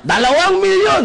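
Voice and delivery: loud, high hype shout; seminar speaker shouting. Retold or imitated. Seminar speaker hyping the crowd, loud high shout. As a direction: yell the bigger number to the room. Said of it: "Nagsisigawan yung mga tao".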